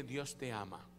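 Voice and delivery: soft and low into a neighbour's ear, "Dios te ama"; softly. Shown as a demonstration. Pastor shows the congregation how to speak softly into a neighbour's ear. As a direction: murmur "Dios te ama" gently, close to the ear. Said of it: "¿Verdad que no le gritó?".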